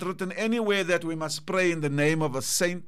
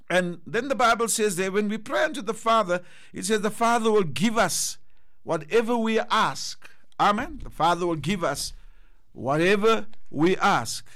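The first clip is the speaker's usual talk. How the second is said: rising preaching fervor; 3 semitones higher than usual. Real, not acted. Preacher building to a climax.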